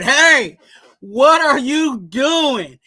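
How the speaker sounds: loud, slow drawn-out yell at the screen. Retold or imitated. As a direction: bark it at the TV like a frustrated fan. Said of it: "we yelled at the T V and said".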